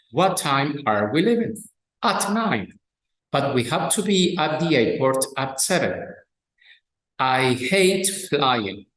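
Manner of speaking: slow, careful English reading of a dialogue; textbook dialogue reading. Acted. Teacher reading a dialogue to students, slow and careful. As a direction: read each line clearly for learners.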